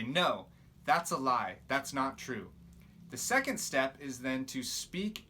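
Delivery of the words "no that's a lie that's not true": firm rebuke. Shown as a demonstration. A preacher shows how to rebuke the lie, firm and slow. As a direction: shut the lie down steadily. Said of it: "rebuke it and say".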